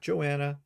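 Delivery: Joanna with no H, "Jo-anna"; wrong pronunciation. Shown as a demonstration. Host ruling out a wrong name, Joanna with H dropped. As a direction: say Joanna without the H sound. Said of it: "her name is actually pronounced".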